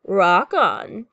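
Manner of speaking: loud, punchy rocker's cheer; captain's cheer. A narrator's reading. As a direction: cheer the new bandmate on. Captain cheers as monster joins.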